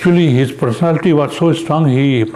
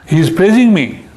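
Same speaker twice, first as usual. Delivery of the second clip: usual speaking voice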